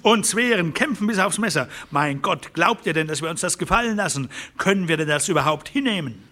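rally the others, outraged; wütender Farmer, aufgebracht; furious rancher. Acted.

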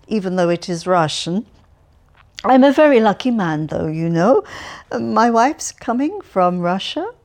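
put-on loud, chatty, cheerful old man voice; cheerful Alferov. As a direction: prattle on brightly to a stranger. Alferov talks of his wife.

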